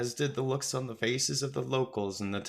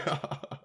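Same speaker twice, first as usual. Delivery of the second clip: short acted chuckle; 4 dB quieter than usual. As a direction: chuckle to round off a retort. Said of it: "He chuckled".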